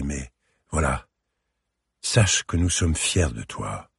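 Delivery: a hint of a gentle father, mostly the narrator's voice; lightly voiced father. Father consoles his sobbing daughter, gentle and steady.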